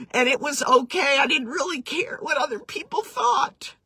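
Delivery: real tears coming through the words; choked-up, moved to tears; voice breaking with tears. Real, not acted. Speaker tearing up while recounting.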